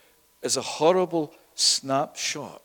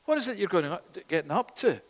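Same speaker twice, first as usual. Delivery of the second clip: higher-pitched, soft, puzzled questioning; puzzled young brother; 4 semitones higher, 3 dB quieter, faster than usual. Acted. Joseph to the brothers grabbing his coat, puzzled. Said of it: "he's going".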